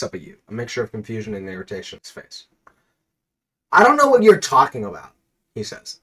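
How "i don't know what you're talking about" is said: higher, louder, irritated snap; irritated villain. Acted. Pringles guy dismissing the hero, irritated. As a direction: brush him off, annoyed.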